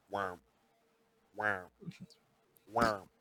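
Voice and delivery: low, soft repeated "wow" noise; imitated sound effect. Host describing what the head does, imitating its low noise. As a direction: mimic a low pulsing sound, evenly spaced. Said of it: "it's going like".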